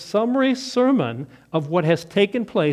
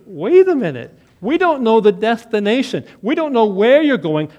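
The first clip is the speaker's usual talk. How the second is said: a touch louder, pressing; Thomas objecting; 3 semitones higher, 5 dB louder than usual. Acted. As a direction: Thomas pushing back, puzzled.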